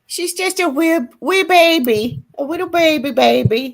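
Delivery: put-on teasing a friend in doting baby talk. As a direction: coo at her like she's an infant.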